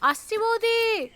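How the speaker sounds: high, drawn-out answering call; slow, sing-out reply from afar; calling back. Acted. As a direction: call back from another room, stretching the words. Maid calls back to her mistress.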